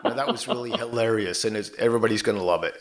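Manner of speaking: laughing as he reassures her; laughing reassurance. Retold or imitated. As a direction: chuckle through the reassurance. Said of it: "And I said".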